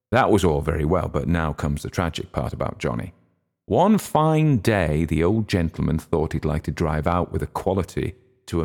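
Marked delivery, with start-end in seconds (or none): 3.7-5.0 high, very slow storybook opening; dramatic storyteller. Acted. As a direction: draw it out like a fairy tale.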